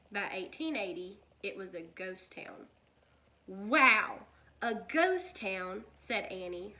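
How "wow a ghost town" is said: amazed. A narrator's reading. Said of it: "her eyes wide".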